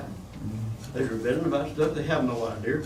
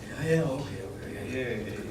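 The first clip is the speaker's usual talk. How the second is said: dismissive brush-off; 4 semitones lower, 6 dB quieter than usual. Retold or imitated. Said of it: "cousin's dismissive reply".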